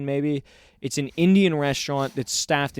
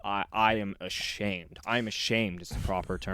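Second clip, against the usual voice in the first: hushed mock apology; 6 semitones lower, 9 dB quieter than usual. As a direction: murmur it like a shamed man. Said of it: "him just going".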